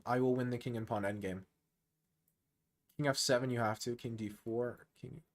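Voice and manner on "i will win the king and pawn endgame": mock calm, softly confident opponent; calmly saying. Coach voicing the calm opponent's confidence, mild mock calm. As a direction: voice the opponent's quiet, easy certainty. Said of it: "Just calmly saying".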